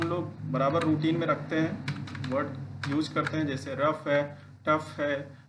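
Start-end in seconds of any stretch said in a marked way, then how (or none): 3.7-4.1 रफ ending in an F sound. Shown as a demonstration. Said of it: "उच्चारण F के तरीके से". 4.7-4.9 टफ closed with an F sound. Shown as a demonstration. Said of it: "उच्चारण F के तरीके से".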